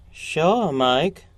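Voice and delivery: a bright, happy lift on the greeting; joyful. Acted. Young woman gladly taking Soapy's arm, joyful. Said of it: "she said joyfully".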